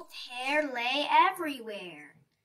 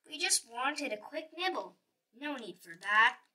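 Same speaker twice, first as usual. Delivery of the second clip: mumbling bears. Acted. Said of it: "mumbling to themselves".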